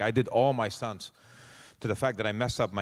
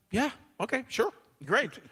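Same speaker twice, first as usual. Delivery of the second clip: mock clueless; 13 semitones higher than usual. Clueless reply to showrunner.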